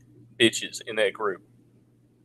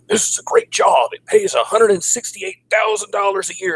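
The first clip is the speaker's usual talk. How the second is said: very high, cheery mock pitch; mock recruiter voice; 10 semitones higher than usual. Recruiter pitching a DC job to him, very high mock voice. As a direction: squeak it out like an overeager recruiter.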